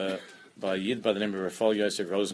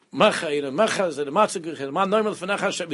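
mock screamed prayer, higher and louder; imitated loud screaming; 7 semitones higher, 6 dB louder than usual. Imitating a yeshivish guy in shul, screaming out. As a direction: imitate someone screaming out the words. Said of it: "very yeshivish guy was screaming out".

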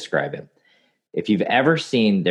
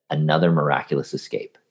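even-keeled nature narrator, understated; a hint of David Attenborough, calm and unbothered; mild documentary-narrator calm; 2 semitones lower than usual. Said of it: "In that same tone".

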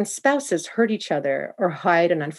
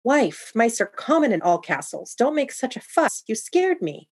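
impatient; 6 semitones higher than usual. Acted. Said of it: "he tried to reason with her impatiently".

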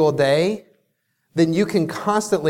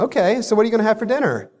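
dismissive; 5 semitones higher, much faster than usual. Retold or imitated. Girlfriend ignoring his brag.

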